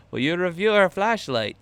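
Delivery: high, loud mock Asian accent asking for a review. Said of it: "slip into my Asian accent".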